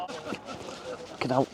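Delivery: breathless whispered swear under his breath, slowed right down; whispered curse. Real, not acted. Man on the pitch mutters to himself in a slow whisper. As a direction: let it slip out as a slow, voiceless whisper.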